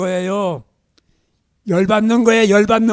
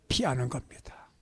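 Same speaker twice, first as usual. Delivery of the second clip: hushed, softer whispered point; 9 semitones lower, 12 dB quieter than usual. Acted. Preacher whispering the lesson to the congregation. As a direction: drop to a secret whisper.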